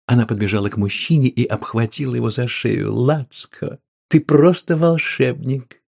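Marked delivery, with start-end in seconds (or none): 2.9-5.8 thrilled. Acted. Woman thrilled.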